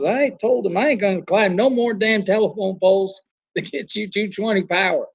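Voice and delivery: high-pitched mock Southern old-timer; Southern accent. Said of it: "he's got a real Southern accent".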